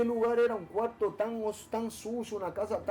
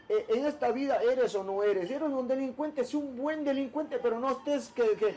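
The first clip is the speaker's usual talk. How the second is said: lightly voiced mother, higher, with a laugh; a hint of mom lecturing her son, amused; voicing his mother; 4 semitones higher than usual. Man quoting his mother's advice to him, higher and amused. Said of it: "mi mamá siempre me decía".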